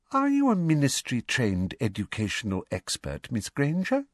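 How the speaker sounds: mildly sugary false sweetness; sweet on top, cold beneath; falsely sweet. Acted. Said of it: "in her falsely sweet voice".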